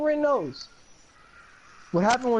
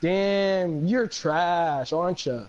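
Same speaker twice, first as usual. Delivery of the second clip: mock trash talk; much slower than usual. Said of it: "I just start going".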